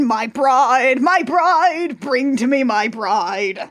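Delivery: lightly hammed-up groom demanding his bride; drawn-out, mock-grand call for a bride; mock dramatic suitor. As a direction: declaim it like a theatrical lover. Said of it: "He's marching down like friggin'".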